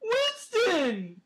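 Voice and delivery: high, loud puppy voice; puppy dog voice. Pretend. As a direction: call him like a puppy talker. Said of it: "Give me your puppy dog voice".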